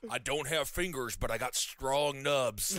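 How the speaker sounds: villain voice. Acted. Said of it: "sounds like a villain with".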